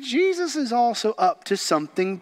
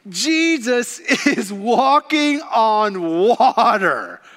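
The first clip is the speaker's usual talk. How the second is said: slow, laughing in wonder; delighted disbelief; amazed laugh; much slower than usual. Real, not acted. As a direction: laugh at how astonishing it is. Preacher marvels at miracle.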